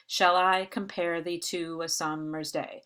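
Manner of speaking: measured iambic recitation, stressing "I", "-pare", "to", "sum-", "day"; exaggerated stresses. Shown as a demonstration. Teacher quoting Shakespeare's sonnet, exaggerated beat on every second syllable of "compare thee". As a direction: hammer out five beats, "shall I comPARE THEE to A SUMmer's DAY". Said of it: "we don't read them in such an exaggerated way".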